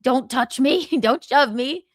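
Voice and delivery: imitating a touch of sassy pushback; mildly sassy. Telling a man not to touch her, mildly sassy. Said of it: "Was she a little sassy?".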